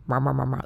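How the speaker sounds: low-key nonsense chatter; rhubarb-style mumbled babble; imitated murmur chat. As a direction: mimic indistinct voices murmuring. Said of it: "they have a little murmur chat".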